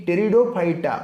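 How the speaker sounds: ଟେରିଡୋଫାଇଟା starting on a T sound; silent P. Shown as a demonstration. Teacher explains P is silent, ଟେରିଡୋଫାଇଟା modelled from the T. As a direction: say ଟେରିଡୋଫାଇଟା with no P at the front. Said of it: "ପି is silent".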